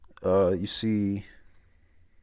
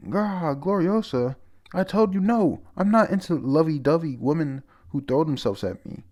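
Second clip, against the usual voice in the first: gruff Roger voice; 7 semitones higher, 4 dB louder than usual. Retold or imitated. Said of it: "He goes".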